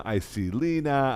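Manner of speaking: ordinary talk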